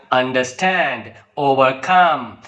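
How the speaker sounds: understand, overcome, with STAND and COME stressed; stress on second word. Shown as a demonstration. Teacher giving compound verb examples, stress on second word. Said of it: "here the second word is stressed".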